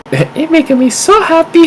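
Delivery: high giggly laughter; laughing. Real, not acted. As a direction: laugh through the words. Delighted by the doodles.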